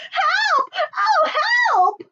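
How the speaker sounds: very high panicky cries for help; panicked cries. A narrator's reading. Frightened chick calling for help after the acorn. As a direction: yelp for help like a terrified chick.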